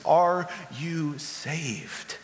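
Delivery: very slow, drawn-out earnest question; John's question. Retold or imitated. John asking the people directly, slow searching question. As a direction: lean in and ask it slowly. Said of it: "He says".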